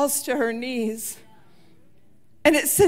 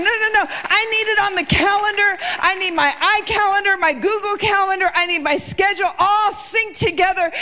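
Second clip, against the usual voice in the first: mad Martha; 5 semitones higher, faster than usual. Retold or imitated. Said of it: "And she's mad".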